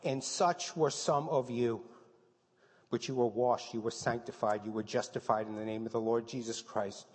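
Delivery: loud, emphatic preaching of the verse list; preacher proclaiming scripture at full force; forceful scripture reading. Acted. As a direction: hammer each name on the list.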